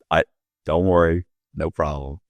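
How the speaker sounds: low, soft, casual dismissal; gentle reassurance. Retold or imitated. Director waving off an apology, gentle reassurance. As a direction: let it drop quietly, as if shrugging it off. Spike Lee waves it off.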